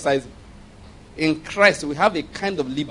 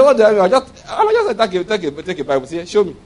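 laughing quote; 2 semitones higher, 4 dB louder than usual. Retold or imitated. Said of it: "He said".

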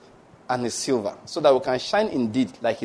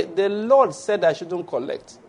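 calm slow refusal; 3 semitones higher, slower than usual. Acted. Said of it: "repeated refusal".

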